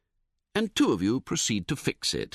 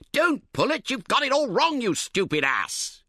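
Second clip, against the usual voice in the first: angry shout; 12 semitones higher than usual. A narrator's reading. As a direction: bellow at the fool. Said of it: "you shout".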